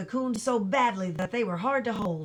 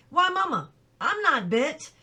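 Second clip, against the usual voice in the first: higher and louder, eager protest; boy telling his mother, excited and louder; 6 semitones higher, 4 dB louder than usual. A narrator's reading. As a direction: burst out, thrilled and innocent.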